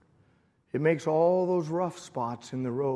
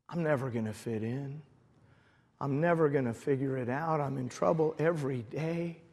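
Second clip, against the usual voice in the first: subdued, downhearted inner voice; discouraged; 6 dB quieter than usual. Retold or imitated. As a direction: think it aloud softly, close to giving up. Discouraged thoughts at Bible college retold.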